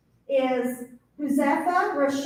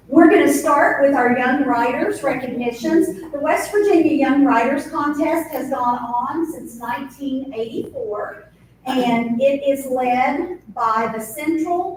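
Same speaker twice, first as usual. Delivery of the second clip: teacher voice; 6 dB louder than usual. Real, not acted. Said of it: "Use my teacher voice".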